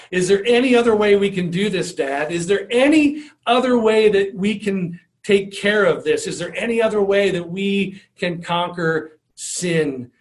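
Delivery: mild retold plea, pressing then subsiding; begging. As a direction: plead earnestly with a father, easing off at the end. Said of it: "he begs his father".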